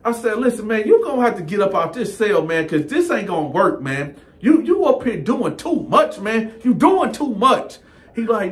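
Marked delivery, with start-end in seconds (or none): 0.4-7.8 pitched way up, indignant; elevated, exasperated cellmate; higher voice. Retold or imitated. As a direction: climb into a high, outraged register. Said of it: "He done took me to my higher voice".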